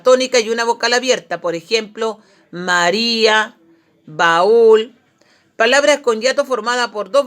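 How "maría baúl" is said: MARÍA and BAÚL drawn out slowly, stressing the í and ú; slow teacher's demo of "María, baúl"; vowels separated. Shown as a demonstration. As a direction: stretch "María, baúl" so í-a and a-ú fall into separate syllables. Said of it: "Aquí las vocales se separan".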